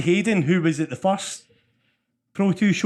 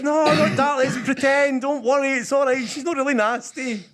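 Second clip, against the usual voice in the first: put-on soothing a child; 10 semitones higher than usual. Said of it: "So I'm like".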